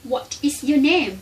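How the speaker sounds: slow demo. Shown as a demonstration. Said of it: "ตัวอย่างเวลาเฮาเว้าว่า".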